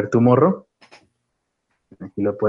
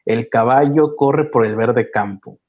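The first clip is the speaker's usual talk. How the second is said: slow recitation; slower than usual. Pretend. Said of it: "vamos a realizar una oración".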